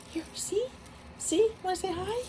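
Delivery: talking to a dog. Real, not acted. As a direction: coo at your puppy. High baby talk to dog.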